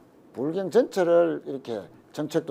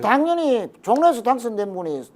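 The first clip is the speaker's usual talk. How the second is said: lightly voiced party leader, higher and emphatic; Kim Dae-jung; 4 semitones higher, 5 dB louder than usual. Party leader retold encouraging his deputy, lightly imitated. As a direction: retell a leader's hearty approval in a raised pitch. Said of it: "김대중 대통령이 엄청 웃으셨겠네".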